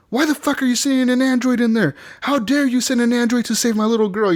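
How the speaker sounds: high-pitched indignant imitation; mock outrage. Player acting the mom confronting the android, pissed-off imitation. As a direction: demand answers like an outraged mother. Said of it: "pissed off that they're sending a robot in".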